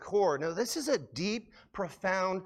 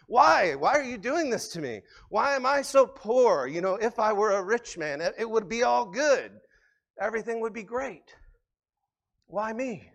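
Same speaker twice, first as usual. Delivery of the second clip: lightly voiced Tevye, pleading and loud; Tevye arguing with God; 5 semitones higher, 4 dB louder than usual. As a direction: complain to God like a poor dairyman. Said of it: "He's like".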